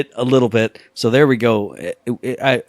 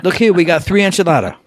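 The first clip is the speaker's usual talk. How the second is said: laughing waitress; 5 semitones higher than usual. Retold or imitated.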